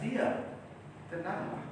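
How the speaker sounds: soft, half-whispered calm command; gentle and soft. Shown as a demonstration. Jesus calms the lake, softly and gently. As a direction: say it gently, barely above a breath. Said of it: "dengan pelan, dengan lembut".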